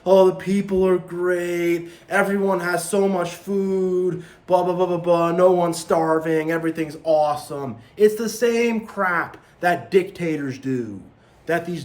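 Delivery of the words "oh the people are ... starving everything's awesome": 1 mocking propaganda. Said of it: "he'll put up all this stuff and say".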